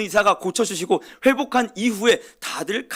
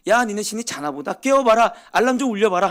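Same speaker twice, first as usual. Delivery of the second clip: higher, teasing jeer that grows louder; mocking taunt; 5 semitones higher, 4 dB louder than usual. Elijah mocking the prophets of Baal, loud scornful jeer. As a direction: taunt the false prophets like a bully. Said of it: "조롱을 하는 거예요".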